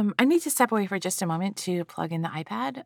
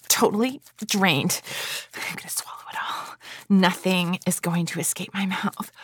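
sensual whisper. Acted. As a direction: whisper it like a seductive secret. Erotic roleplay whisper.

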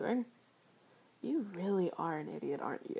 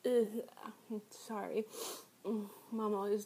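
talking with mouth full; words round a mouthful; slower than usual. Acted. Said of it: "not to talk with your mouth full".

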